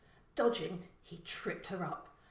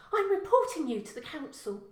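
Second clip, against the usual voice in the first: snapping threat; 8 semitones higher, 7 dB louder than usual. Acted. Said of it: "the girl snapped".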